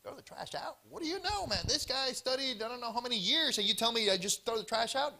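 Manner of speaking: mock offended homeowner; indignant. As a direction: sneer back at the advice. Indignant family retort.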